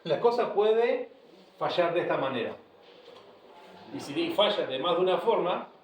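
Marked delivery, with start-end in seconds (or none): 0.0-2.6 mock warning. Shown as a demonstration. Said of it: "uno tiene que decir".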